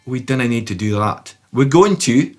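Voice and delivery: hammed-up Scottish accent; bad Scottish accent. Shown as a demonstration. Guitar teacher jokes about accenting the strum, bad Scottish accent. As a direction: put on a badly faked Scottish accent. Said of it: "that's really bad".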